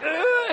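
strained grunt. Retold or imitated. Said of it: "He's like".

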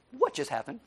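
softly baffled question, tipping upward; hushed, mildly mock bewilderment; stunned disbelief. Naaman, stunned at the intern's order, softly baffled.

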